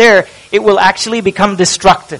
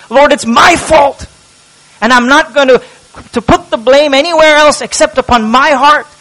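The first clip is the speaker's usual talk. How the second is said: pleading confession; 3 semitones higher than usual. Acted. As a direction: build the plea until it breaks out. Preacher voices David confessing.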